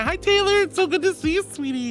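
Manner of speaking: excited greeting. Real, not acted. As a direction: squeal hello to a friend. Greeting a viewer.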